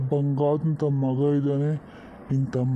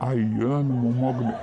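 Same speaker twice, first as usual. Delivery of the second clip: fond laugh; 3 semitones lower than usual. Acted. Grandfather amused by greedy grandson.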